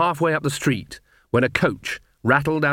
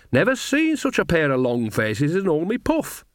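higher-pitched folksy witch chivvying her friends; cheerful old witch, teasing; 6 semitones higher than usual. Acted. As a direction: tease them as a jolly old witch.

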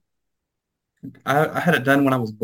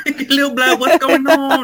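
very high, comic British voice; mock British accent; 13 semitones higher, 4 dB louder than usual. Echoing friend's bit, hammed-up British accent. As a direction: squeal it in fake British. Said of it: "talking like I'm British".

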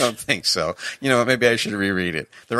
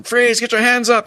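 loud, high police command; acted yelling; 7 dB louder than usual. Cop to couple in bed during a raid, acted yell. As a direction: shout the order like a cop on a raid. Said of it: "the guy's yelling".

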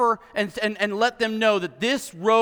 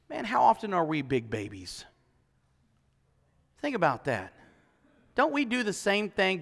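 quiet reflection; 7 dB quieter than usual. Real, not acted. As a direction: pull back and ask it softly. Quiet reflective turn to audience.

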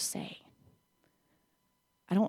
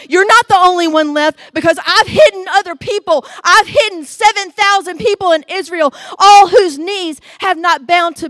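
laughing reassurance; 8 semitones higher, 13 dB louder than usual. Acted. God reassures Elijah, laughing.

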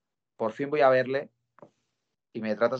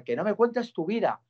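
much higher, slow mock yell of the policeman; retold yelling; 9 semitones higher than usual. Policeman shouting at the fan to stop talking, slow high mock yell. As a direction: stretch it out, pitched way up like a cop losing his temper. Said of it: "me empieza a gritar".

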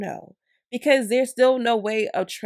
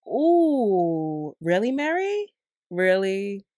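mock disbelief; much slower than usual. Real, not acted. Reacting to scammer's reply.

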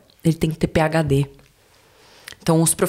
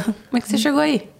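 much higher, fast, doubting question; imitating a suspicious Brazilian; 6 semitones higher, faster than usual. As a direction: sneer at a fellow Brazilian's success. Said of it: "ele olha pra você e fala".

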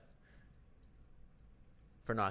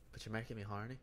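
put-on Irish accent; 5 dB quieter, faster than usual. Man defends himself to his co-host, in a mock Irish accent. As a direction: do a dubious comic Irish accent. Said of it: "something wrong with your accent".

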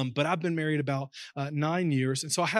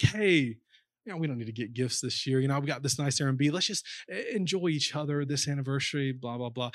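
quoting wife; 3 semitones lower, 3 dB quieter than usual. Retold or imitated. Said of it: "she was just like".

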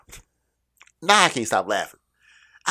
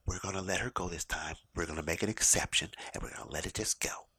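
softer, placating retold manager; de-escalating manager; 3 semitones lower, 8 dB quieter than usual. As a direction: talk it down quietly as the manager. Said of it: "trying to de-escalate the situation".

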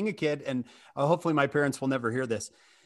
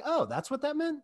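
surprised realization; 12 semitones higher than usual. Retold or imitated. Kids realize the meaning.

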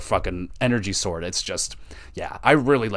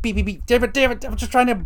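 much higher, frantic mock panic; panicked aiming; 4 dB louder than usual. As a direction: fumble the laser as the enemy closes in. Aiming laser at charging enemy.

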